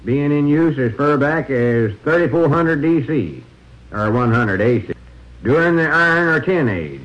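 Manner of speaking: steady droning tour guide; monotone voice. Pretend. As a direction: drone on like a dull museum guide. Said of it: "monotone voice".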